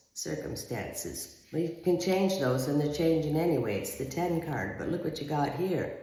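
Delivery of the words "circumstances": whispered echo. Acted.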